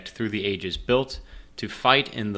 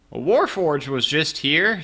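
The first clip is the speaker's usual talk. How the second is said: librarian voice; 7 semitones higher, 5 dB louder, slower than usual. Acted.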